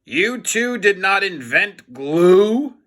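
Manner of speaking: angry. Acted. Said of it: "Krupp became very angry".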